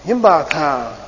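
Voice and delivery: Yimba ta falling on yimba; sarcastic tell. Shown as a demonstration. Teacher repeats the sarcastic Yimba ta for the class. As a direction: let Yimba ta drop as a sarcastic question. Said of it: "just a sarcastic question".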